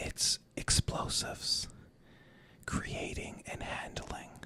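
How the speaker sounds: soft, slow ASMR whisper. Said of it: "We're going into A S M R mode".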